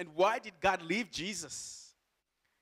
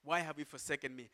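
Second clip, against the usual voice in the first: quicker, softer repeat; softer echo of the cry; 6 dB quieter, faster than usual. Acted. Preacher repeating Jesus' question, softer echo. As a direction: let the cry drop to a quiet question. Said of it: "he cried out in a loud voice".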